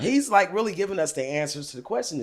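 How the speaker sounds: high, whiny fake sob story with a laugh breaking through; fake crying. Friend lying to the cop about a boyfriend fight, hammed-up fake tears. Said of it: "I'm acting like I'm wiping her ear and I'm crying".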